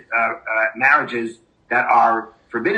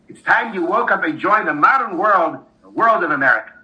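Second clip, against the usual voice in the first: raised, high-pitched scolding rant; angry shout; 4 semitones higher than usual. Acted. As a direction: tear into the stranger with indignation. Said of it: "the man began to shout".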